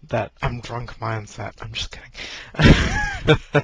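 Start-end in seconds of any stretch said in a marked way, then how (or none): 1.9-3.6 high, loud, very slow squeak; mock squeal. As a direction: stretch it out in a silly high voice. Joking after drunk mindset remark.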